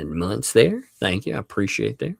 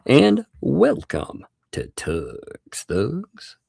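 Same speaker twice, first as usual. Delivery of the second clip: very slow, higher announcer welcome; lightly hammed-up announcer, long drawn vowels; 6 semitones higher, much slower than usual. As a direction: stretch every word like a playful announcer. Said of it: "I like doing my announcer voice".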